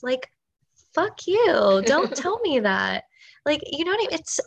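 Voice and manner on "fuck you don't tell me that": fake-furious telling someone off; playfully outraged at a naysayer; mock angry outburst. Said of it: "so mad and angry".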